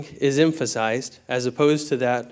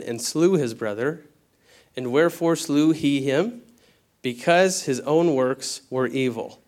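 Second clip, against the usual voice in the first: scripture reading. Acted. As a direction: read each phrase with gravity. Reads scripture aloud.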